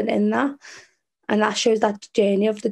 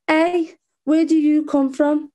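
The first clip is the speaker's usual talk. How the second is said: put-on higher-pitched boy's challenge; little boy calling out; 6 semitones higher, 4 dB louder, slower than usual. Ginger boy down the road questioning the poet, raised calling voice. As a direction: call it out high, as a child would. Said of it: "a little ginger boy down the road".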